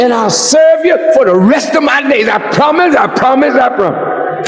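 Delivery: desperate prayer. Retold or imitated. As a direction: bargain with God at full voice. Sinner's desperate bargaining prayer.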